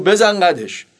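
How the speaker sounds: curt, cocky tough-guy confirmation; short, firm acted retort; thuggish Reza Shah. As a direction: play a swaggering man clinching it. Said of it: "با هم حالتش گفت".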